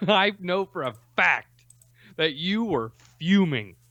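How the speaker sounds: slow, amused teasing with laughs; laughing. Real, not acted. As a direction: tease him through giggles. Teasing friend while laughing.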